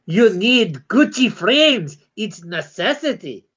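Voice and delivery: swooping, put-on voice of a fancy snob; weird fancy-person voice. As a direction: draw it out like a silly posh cartoon Chihuahua. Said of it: "you read in that weird voice".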